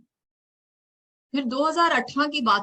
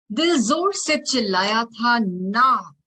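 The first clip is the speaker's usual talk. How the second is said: slower and louder, दिल hit hard and falling; louder refrain; 3 semitones higher, 5 dB louder, slower than usual. Acted. Poet remembering the coach, the refrain swelling louder. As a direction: build the refrain up, slow and loud.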